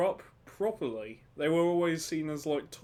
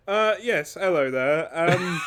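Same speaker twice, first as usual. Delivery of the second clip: loud, hearty hello down the phone; loud phone greeting; 6 dB louder than usual. Pretend. Phone call voicing the Emperor.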